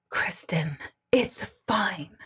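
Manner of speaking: soothing, low-volume reassurance; hushed reassurance. Retold or imitated. Medium calms her frightened friend, hushed reassurance. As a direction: drop to a soft near-whisper.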